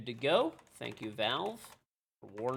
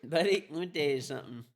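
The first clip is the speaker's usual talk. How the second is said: mock American hunter; 2 semitones higher, 5 dB louder than usual. Mock American offering magpie hunting.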